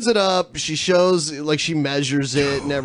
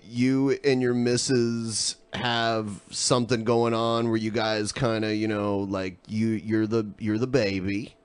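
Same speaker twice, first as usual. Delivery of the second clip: hushed suggestive; 6 semitones lower, 6 dB quieter than usual. Real, not acted.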